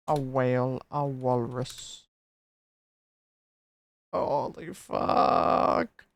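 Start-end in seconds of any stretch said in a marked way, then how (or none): 4.1-6.1 stunned exclamation. Real, not acted. Shocked reaction to game.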